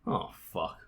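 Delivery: low, soft, sinking curse; dismayed realization. Retold or imitated. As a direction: let it sink in, quietly.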